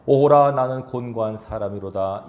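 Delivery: steady reading voice with a small lift on 오호라; scripture reading. Shown as a demonstration. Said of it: "바울이 고-, 고통하고 있습니다". (본문을 읽듯 담담하게, 오호라만 살짝 힘주어)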